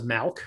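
"malk", with an open vowel in place of the short i; "milk" as "malk". Retold or imitated. Host imitating Kim's word for milk, said "malk". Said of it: "Kim says".

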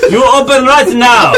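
mild mock Russian demand; a hint of a Russian accent. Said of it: "I'm going Russian again".

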